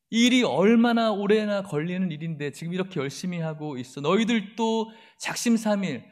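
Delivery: belittling, dismissive jeers; discouraging sneer. Retold or imitated. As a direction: drain their will to work. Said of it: "막 맥 빠지는 소리죠".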